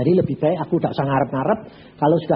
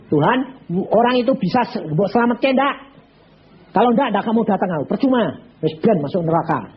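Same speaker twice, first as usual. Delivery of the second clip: fervent prayer; 7 semitones higher than usual. Retold or imitated. Pastor praying for the rich man, fervently pleading. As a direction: bargain with God in earnest.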